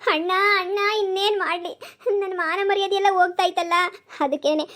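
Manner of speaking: acted weepy appeal to her elder brother; crying sister. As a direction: plead with your brother through tears. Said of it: "ನೀನ್ ಯಾಕಮ್ಮ ಅಳ್ತಾ ಇದೀಯಾ?".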